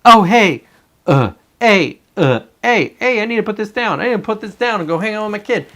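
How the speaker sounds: hammed-up doting dad snapping out of doomscrolling; mock sweet dad. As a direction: switch into a put-on sugary parent voice. Himself acting sudden sweet dad.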